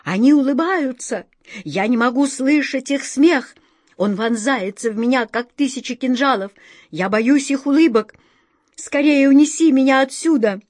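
panicked king. Retold or imitated. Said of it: "Король закричал".

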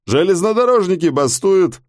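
a hint of a talkative driver; lightly voiced taxi driver. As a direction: tell the passenger the news.

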